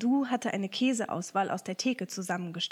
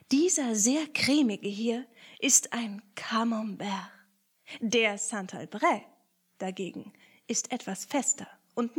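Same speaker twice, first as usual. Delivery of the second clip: cheese connoisseur. Acted. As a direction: present each cheese like a proud connoisseur. Picondu presents cheeses.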